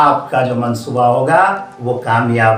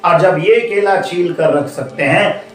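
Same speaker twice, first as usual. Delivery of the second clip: higher-pitched, indignant complaint; indignant protest; 7 semitones higher than usual. Acted. Other monkeys protesting to the leader, indignant. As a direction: object as a wronged crowd demanding equal treatment.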